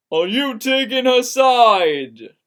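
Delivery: loud, high accusing yell. A narrator's reading. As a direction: demand it, hurt and angry. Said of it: "Kate yelled".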